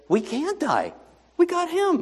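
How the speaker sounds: high, cocky boast; smug disciples. Acted. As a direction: toss it off like nothing can touch them.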